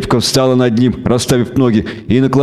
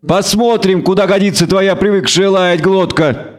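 put-on higher, sneering young elf woman; a sneering elf woman mocking her captive; taunting elf woman; 7 semitones higher than usual. A narrator's reading. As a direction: needle him with contempt. Elf's taunting voice.

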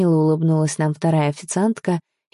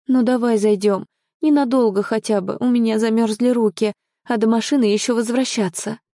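higher-pitched pleading; coaxing plea; 6 semitones higher than usual. Acted. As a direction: coax a reluctant partner. Coaxing partner into a café.

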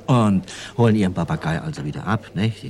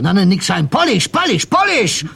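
much higher, loud insistent correction; shoeshine boy; 11 semitones higher, 4 dB louder than usual. Retold or imitated. Shoeshine boy correcting the immigrant, high and loud. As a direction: correct him loudly, pitch flying up. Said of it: "Da sagt er".

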